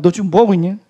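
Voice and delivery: loud, outraged retelling; indignant repeat. Retold or imitated. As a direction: throw the question back, offended. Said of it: "그러니까 물어보는 거 아니에요".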